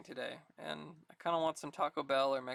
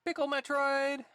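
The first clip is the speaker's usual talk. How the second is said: excited; 7 semitones higher, 5 dB louder than usual. Real, not acted. Excited exclamation.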